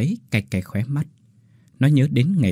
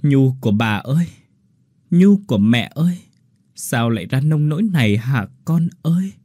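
anguished calling; 3 semitones higher than usual. Acted. Grandma and mother calling out.

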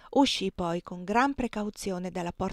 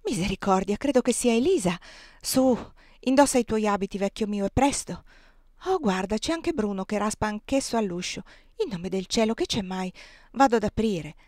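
urgent alarm; 4 dB louder than usual. Acted. Aunt Clo urgently rousing Tom.

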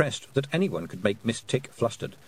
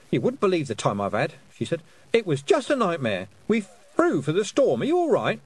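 flustered Miss Tick; 6 semitones higher, 3 dB louder than usual. Acted.

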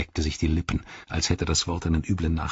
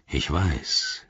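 low orc growl; low, gruff acknowledgement; 4 semitones lower, 3 dB quieter than usual. Acted. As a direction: growl it back grudgingly. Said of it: "knurrte Ugluk".

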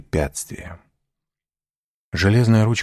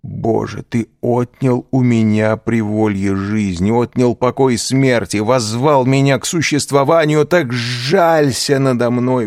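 loud, high, desperate pleading to God; slow loud cries of a prisoner; anguished prayer; 6 semitones higher, 5 dB louder than usual. A narrator's reading. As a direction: beg heaven, rising in despair. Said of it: "вскричал он".

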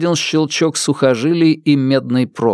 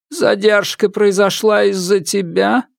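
stern widow; 8 semitones higher than usual. Acted. Widow questions ghost.

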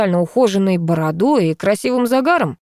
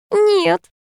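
высокое плаксивое нет; взвыть от горя; завывая; 14 semitones higher than usual. A narrator's reading. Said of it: "завыла подруга". (воет в ответ на вопрос Ильи, высоко)

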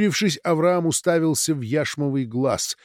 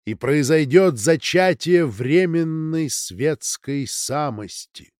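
high, slow, solemn ringing voice; crystal voice; 3 semitones higher, 3 dB louder, slower than usual. Acted. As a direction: pronounce it slowly like an oracle. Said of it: "сказал хрустальный голос".

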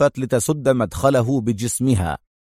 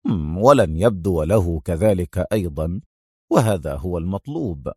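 quick calm addition; 6 semitones lower than usual. A narrator's reading. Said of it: "فأسرع يضيف".

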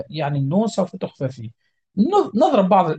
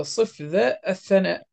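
ordinary talk, nothing marked

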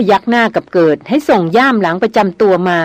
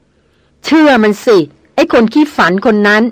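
furious snap; slower than usual. A narrator's reading. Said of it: "ระพินตะคอกอย่างพลุ่งพล่าน".

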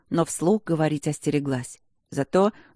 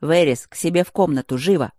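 louder sharp command; curt order; 5 dB louder than usual. Acted. Rector sends the girl to her room, loud and curt.

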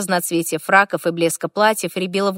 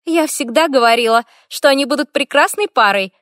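high, loud happy announcement; cheerful declaration; 6 semitones higher, 4 dB louder than usual. A narrator's reading. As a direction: declare it brightly to everyone. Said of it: "заявила Бланш".

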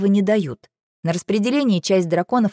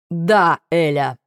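barked; 3 dB louder, much slower than usual. A narrator's reading. Dragon losing patience on the phone, barking. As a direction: bark the name in exasperation. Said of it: "рявкнул он".

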